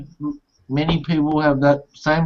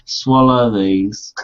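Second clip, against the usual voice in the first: orderly giving pills; much slower than usual. Retold or imitated. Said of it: "and they go".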